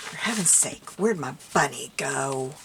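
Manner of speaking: loud exasperated grumble. Real, not acted. Crafter to herself, hunting the bunny, exasperated. Still searching, losing patience.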